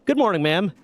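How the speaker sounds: a sneering good morning; very snide. Retold or imitated. Greeting the new officer snidely. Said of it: "very snide".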